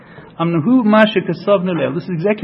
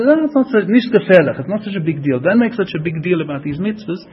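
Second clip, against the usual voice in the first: dismissive. Retold or imitated. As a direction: play down the fuss as someone else would. Voicing people who belittle the mitzvahs.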